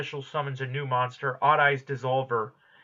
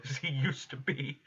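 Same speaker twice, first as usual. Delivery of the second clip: laughing through the line; 9 dB quieter than usual. Real, not acted. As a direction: chuckle while calling him an asshole. Laughs mid-sentence about Yuri.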